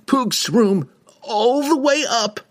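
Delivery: very high squeaky voice; squeak. A narrator's reading. Thief squeaking on.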